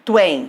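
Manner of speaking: "Tuen" said as one merged syllable; syllables joined. Shown as a demonstration. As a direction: run the vowels of "Tuen" together in a single beat. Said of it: "Falo junto". ("Tuen" falado junto, numa só sílaba)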